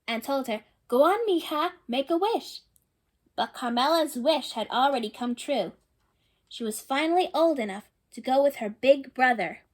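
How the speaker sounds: gentle read-aloud storytelling voice; storybook narration. A narrator's reading. Reading a picture book to children, storybook narration. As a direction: read the story to the little ones.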